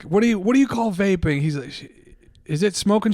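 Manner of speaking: lightly voiced bemused guy; imitating the guy. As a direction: pitch it up, feigning confusion.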